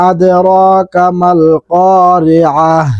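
drawn-out Quranic recitation; slow recitation. Shown as a demonstration. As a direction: stretch the madd slowly, recite. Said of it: "উচ্চারণ হবে এইভাবে". (ধীর তিলাওয়াত)

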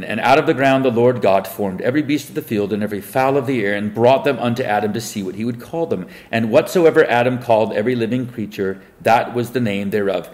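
measured Bible reading voice; solemn King James recitation; scripture reading. Acted. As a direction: read the verse like a preacher at the lectern. Reads scripture aloud.

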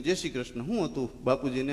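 hushed condolence. Retold or imitated.

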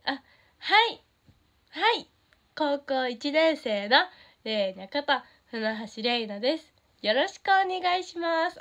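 a shy new member introducing herself on stage; nervous idol self-intro. Shown as a demonstration. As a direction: act out a jittery debut introduction. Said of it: "もうこんな感じで".

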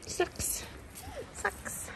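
soft, unvoiced and fast; tired, ill murmur; quietly unwell. Real, not acted. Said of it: "I'm really not feeling well".

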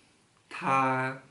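word by word, long pauses between; slow, one word at a time; reading aloud haltingly. Shown as a demonstration. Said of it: "Coba baca pelan-pelan".

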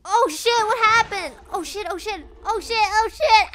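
high, loud repeated cursing; panicked. Real, not acted. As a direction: curse in rising panic. Panicking at sudden game event.

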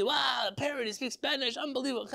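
hammed-up wonder at the parrot; amazed crowd. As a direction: gush like impressed onlookers.

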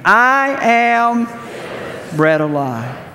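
a high, loud, drawn-out "I am", then "bread of life" settles. Shown as a demonstration. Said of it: "Let's try it again".

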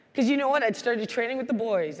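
ordinary talk, nothing marked

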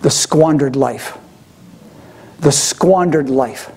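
slow, low voice of judgment; pronouncing voice. Retold or imitated. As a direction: hand down a verdict, slowly and low. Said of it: "the voice comes forth and says".

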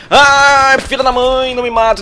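high, loud angry curse; frustrated yell. Real, not acted. Streamer cursing loudly after a missed kill. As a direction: let the curse burst out.

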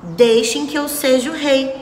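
mild shout. Acted. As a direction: raise the voice lightly like a king. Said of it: "gritou o Anelar".

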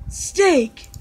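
high voice breaking into laughter; laughing. Real, not acted. Correcting Steve about steak, laughing while talking. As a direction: giggle helplessly through the words.

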